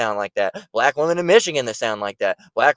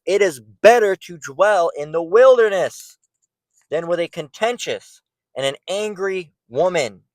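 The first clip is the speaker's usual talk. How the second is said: scripture reading; 4 semitones higher than usual. Real, not acted. Reading Proverbs verse aloud.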